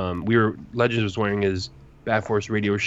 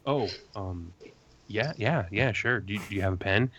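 quiet Dan; 6 dB quieter than usual. Retold or imitated. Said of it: "the was like".

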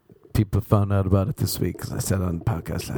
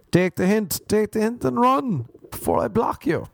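exasperated warning; 11 semitones higher than usual. Real, not acted. Telling pushy girls to back off, exasperated. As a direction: push it up, fed up.

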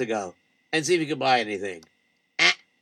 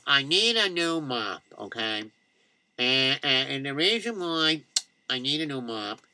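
timid customer; 4 semitones lower, 5 dB quieter than usual. Acted. Timid customer wants a mop.

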